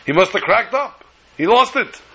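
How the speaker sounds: the foreman panics that the boss has lost it; alarmed disbelief. Acted. Foreman despairs at singing rabbi.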